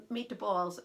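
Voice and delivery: Italian-accented "meat to balls"; light Italian accent demonstration. Shown as a demonstration. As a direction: say "meat to balls" with an added vowel, Italian-style. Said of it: "will have an Italian accent".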